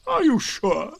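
slow gloomy donkey voice; Eeyore voice. Acted. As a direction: drag it out, gloomy and glum.

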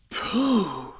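high, drawn-out gasp of wonder; high, impressed exclamation; admiring. A narrator's reading. Everyone admires the present.

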